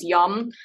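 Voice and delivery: yum as in "yummy"; yum, rhyming with "hum"; pronounced like yummy. Shown as a demonstration. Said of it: "like you're eating yummy".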